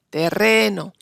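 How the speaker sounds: "terreno" with the middle E stressed and drawn out; stress on second E. Shown as a demonstration. Teacher showing students where the accent falls in "terreno", stressed on the middle E. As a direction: lean on the second syllable of "terreno". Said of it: "el acento está sobre la segunda E".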